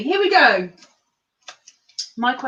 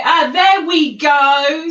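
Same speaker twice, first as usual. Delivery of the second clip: excited; 5 semitones higher, 9 dB louder, slower than usual. Real, not acted. Zooming in, excited.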